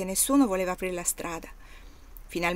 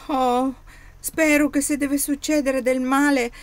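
high, loud earnest exclamation; boy exclaiming to the master, high and loud; 6 semitones higher, 7 dB louder than usual. Acted. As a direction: cry it out, offering himself. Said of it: "esclamò Oddo".

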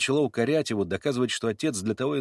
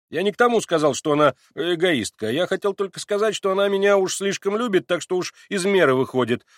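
higher and louder, aggrieved; plaintive complaint; 6 semitones higher, 7 dB louder than usual. A narrator's reading. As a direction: complain like a wronged boy. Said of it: "жалобным голосом". (жалобно, обиженно)

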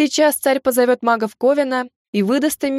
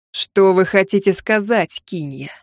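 cold anger; 3 semitones lower, slower than usual. Acted. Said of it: "обдал меня холодом своего гнева царь".

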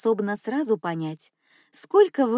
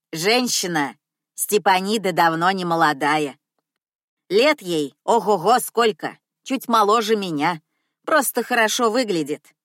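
put-on loud old cleaner; 5 dB louder than usual. Cleaner lecturing customer loudly.

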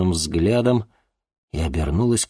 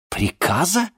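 offended; 12 semitones higher, slower than usual. Acted. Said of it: "обиженно вскинулась Ди".

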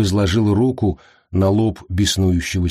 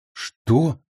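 higher-pitched baffled question; utterly confused; 7 semitones higher than usual. A narrator's reading. Prisoner lost by his captor's riddles, baffled. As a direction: ask it completely lost. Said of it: "окончательно запутался Ласкар".

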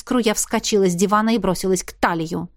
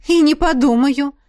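defiant refusal; 6 semitones higher, 5 dB louder than usual. Acted.

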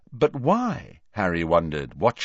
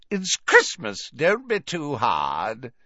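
put-on high, slow, merry old man; jolly, a little drunk; tipsy jovial professor; 4 semitones higher, slower than usual. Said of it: "hiccuping again".

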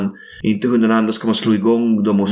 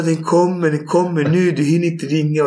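higher, mock urgent labour cry; urgent warning; 5 semitones higher than usual. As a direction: hurry him in a half-acted panic. Partner in labour urging him. (ljust, spelat brådskande)

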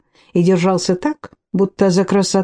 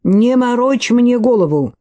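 angry retort; 5 semitones higher than usual. Acted. Гарри loses patience with Лэри, higher angry retort. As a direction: cut him off, losing patience. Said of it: "рассердился Гарри".

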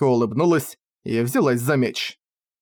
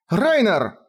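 higher voiced girl calling his name; female voice calling; 7 semitones higher than usual. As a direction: call out to him urgently. Кефар окликает Райнера. (девушка окликает Райнера)

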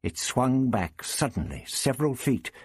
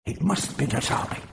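retorting; 6 semitones higher than usual. Acted. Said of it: "Propillus retorted".

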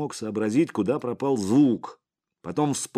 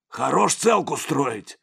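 loud, higher, drawn-out rebuke; angry; 6 semitones higher, 5 dB louder, slower than usual. A narrator's reading. Boss rebukes his bodyguard, angry and loud. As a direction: throw it at him crossly. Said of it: "сердито бросил Сипякин".

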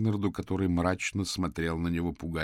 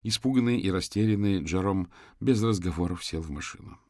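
plain reading voice

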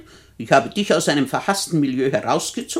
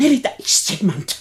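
alarmed warning; 3 semitones higher, 4 dB louder than usual. Acted. Hears intruder, warns companion.

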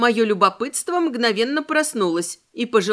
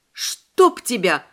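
exhaled curse; much slower than usual. Acted. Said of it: "выдохнула я".

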